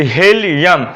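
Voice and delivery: हीलियम slowly split as ही and लियम; syllable by syllable. Shown as a demonstration. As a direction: stretch the parts of हीलियम. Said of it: "syllable पर चलूँगा". (हीलियम को खंडों में, धीरे)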